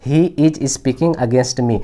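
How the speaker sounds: very slow, each word spaced out; slow dictation. Shown as a demonstration. Teacher dictating the answer to students, very slow. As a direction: spell it out word by word for the class. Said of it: "इसी तरीके से ये वाक्य हो गया".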